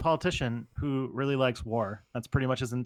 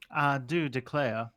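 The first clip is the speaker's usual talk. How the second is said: put-on Southern belle accent; slower than usual. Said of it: "It's fun to do that accent".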